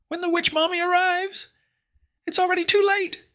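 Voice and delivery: high, loud shrieking witch; shrill cackling witch shriek. Acted. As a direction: screech it like a witch. Witch mommy speaking.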